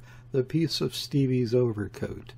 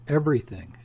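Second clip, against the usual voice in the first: exclaimed; 4 semitones higher, faster than usual. Acted. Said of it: "exclaimed the voice of Mister Verloc".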